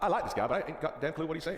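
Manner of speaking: lightly hammed-up Texan; Texan accent. Texan who can't follow the Aussie, Texan accent. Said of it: "especially in Texas".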